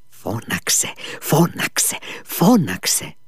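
hushed first, then increasingly insistent; a lightly voiced inner urging, building from near-whisper. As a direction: build from a breath to a firm command. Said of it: "Μια φωνή μου έλεγε".

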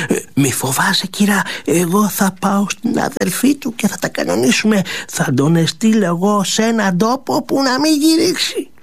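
put-on hushed conspiratorial old maid; secretive old servant's whisper. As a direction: whisper the scheme to your mistress.

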